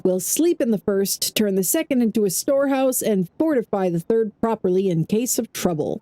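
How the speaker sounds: lightly dramatized journal narration; diary read-aloud. Acted. Gamer reading an expedition leader's diary to viewers, lightly dramatic narration. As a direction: read it out with storybook emphasis, in your own accent. Reads a diary found in game.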